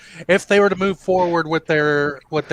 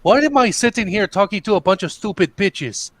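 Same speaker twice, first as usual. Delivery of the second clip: higher-pitched mock rant; retold tirade; 5 semitones higher, 4 dB louder than usual. Retelling a boy's video outburst, mock indignant. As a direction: imitate a teenager going off on them. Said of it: "he basically goes off on them".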